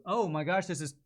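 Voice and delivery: ordinary talk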